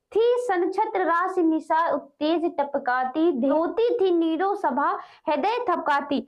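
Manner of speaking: slow, deliberate reading of poetry; measured poem reading, pausing between lines; verse recitation. Acted. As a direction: draw out each phrase of the verse. Reads verse aloud.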